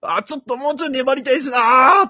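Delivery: loud, high lament; dismayed commentator. Retold or imitated. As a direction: groan that the runner should hold on longer. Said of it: "落胆の声出しおるやん". (解説者が落胆して声を上げる)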